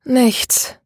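put-on girl sighing to her friend that nothing happened. A narrator's reading. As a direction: let the word out on a tired sigh. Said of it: "seufzte Maria".

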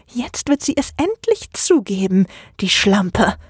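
a hint of a sly whisper from a shadow figure; lightly voiced sneering Oleg. Oleg whispers into the narrator's ear, sneering lightly. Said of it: "flüsterte Oleg in mein Ohr".

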